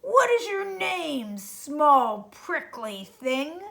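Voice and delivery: slow, mocking question to a small creature; unkind. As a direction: look down on him as you ask. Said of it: "asked the rhinoceros unkindly".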